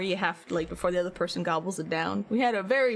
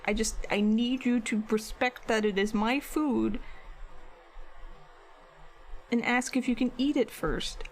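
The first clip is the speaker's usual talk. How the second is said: exasperated; 2 semitones higher than usual. Retold or imitated. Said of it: "exasperated yelling".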